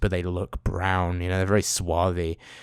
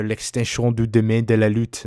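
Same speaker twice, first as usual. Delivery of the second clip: title read with French pronunciation; attempted French. Shown as a demonstration. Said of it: "how do you say that in French?".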